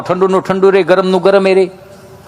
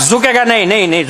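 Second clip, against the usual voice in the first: filmy dialogue; 3 semitones higher than usual. Retold or imitated. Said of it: "Bapu dialog એ match થાય".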